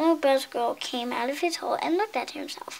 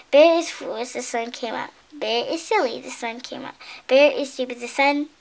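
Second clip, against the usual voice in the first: teasing. Acted. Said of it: "began to tease Bear".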